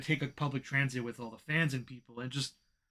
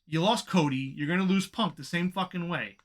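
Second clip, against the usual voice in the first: fed-up rant, pitched up and emphatic; frustrated; 3 semitones higher than usual. Real, not acted. Fan venting at the company over losing Punk, frustrated. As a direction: vent it, pressing hard on the key words. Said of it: "It's just frustrating".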